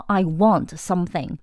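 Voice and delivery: flat demanding order; blunt command. Shown as a demonstration. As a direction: state it like an order. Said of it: "命令的语气非常重".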